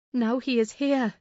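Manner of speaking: urgent warning call; exclaiming. A narrator's reading. Nelly warning the lovers Linton has come, exclaiming. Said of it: "I exclaimed".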